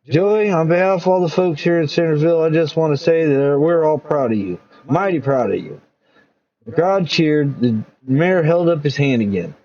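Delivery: lightly voiced public-speech mayor; a hint of a small-town mayor; folksy mayor. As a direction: address the town proudly.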